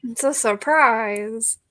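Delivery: slow, teasing singsong; teasing, drawn out. Shown as a demonstration. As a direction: stretch it out to tease. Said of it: "I'm not gonna tell you".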